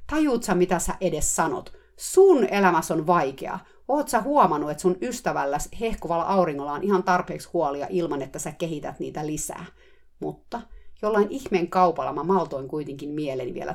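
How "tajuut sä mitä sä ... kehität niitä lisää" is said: imagined roar. Retold or imitated. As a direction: bellow at the therapist in your head. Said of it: "karjunut terapeutille suoraa huutoa". (kuviteltu karjaisu)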